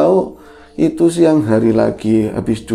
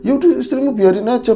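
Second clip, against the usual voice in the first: mildly brusque, higher-pitched retort; rough dismissal; 11 semitones higher than usual. Retold or imitated. Handoko telling the husband to leave his wife, mildly rough retort. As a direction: imitate someone getting curt and impatient. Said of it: "udah mulai kasar-kasar".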